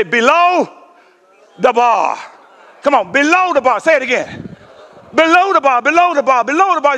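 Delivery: "Below the bar" chanted back with the crowd; call and response. Shown as a demonstration. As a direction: lead the congregation in "Below the bar". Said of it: "why don't you say it with me".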